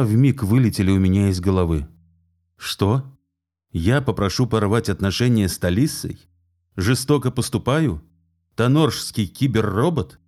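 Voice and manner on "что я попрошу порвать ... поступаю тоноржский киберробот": venomous. Acted. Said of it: "словно плевался ядом".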